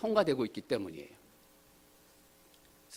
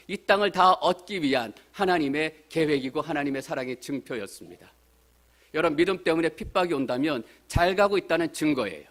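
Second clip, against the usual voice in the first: loud, higher-pitched preaching; preaching at full force; 4 semitones higher, 7 dB louder than usual. Real, not acted. Preacher assuring a persecuted church, forceful raised preaching. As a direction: drive the point home to the congregation.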